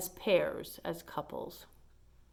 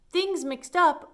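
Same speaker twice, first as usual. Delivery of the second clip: startled realization; 9 semitones higher, 7 dB louder, slower than usual. Acted. Amelia recalls.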